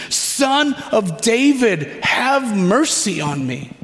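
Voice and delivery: mild acted shout to get his attention. Shouting over the crowd for his attention, drawn-out call. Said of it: "you shout even more".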